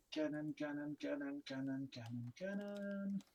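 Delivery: soft, repetitive mumble to oneself; quiet droning repetition while searching; absent muttering. Real, not acted. Player looking up cannon bonuses, muttering.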